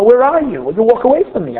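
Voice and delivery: imitated upset child. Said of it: "The child's screaming".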